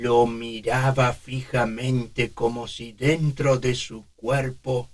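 put-on slow, soft old man voice. Shown as a demonstration. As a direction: breathe slowly like an old man. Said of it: "cuesta más respirar".

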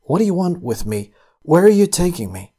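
a touch of alarm from the captured man; startled. A narrator's reading. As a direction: ask it with a jolt of surprise. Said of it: "with a start of surprise".

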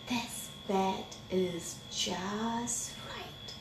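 soft, very slow, drifting off; sleepy contentment. A narrator's reading. Goldilocks sinking into the small bed, softly contented. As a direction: stretch each word gently.

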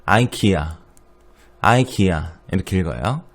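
아이키아 said aikia; 아이키아 with ai up front; American IKEA. Shown as a demonstration. 미국식 이케아 발음을 학생들에게 시범. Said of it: "미국 발음은".

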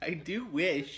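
Layla. Retold or imitated. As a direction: mimic it back, playfully exaggerated. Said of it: "That's how you said it".

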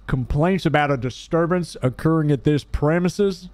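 police officer. Acted. Officer apologizing to a homeowner for calling late, official.

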